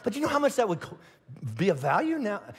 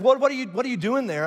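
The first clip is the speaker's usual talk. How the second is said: higher, puzzled onlooker's question; mildly mock-baffled, pitched up; lightly voiced questioner; 5 semitones higher, 4 dB louder than usual. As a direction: ask as a nosy bystander, slightly raised. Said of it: "if somebody said".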